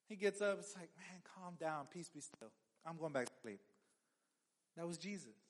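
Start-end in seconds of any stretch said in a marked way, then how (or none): 1.0-3.6 calm and unbothered. Retold or imitated. Jesus calming the storm.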